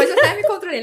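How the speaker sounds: amused confession broken by laughs; laughing. Real, not acted. Ri de si mesma por chorar. (rindo enquanto fala)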